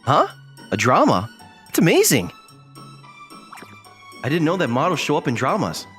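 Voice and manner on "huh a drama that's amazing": amazed and impressed; amazed reaction. Acted. Acted amazed reaction to drama role.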